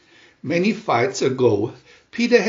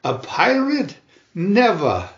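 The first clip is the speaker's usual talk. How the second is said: higher, outraged refusal; defiant cry; 4 semitones higher than usual. Acted. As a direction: fling it back in defiance. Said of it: "Wendy cried out".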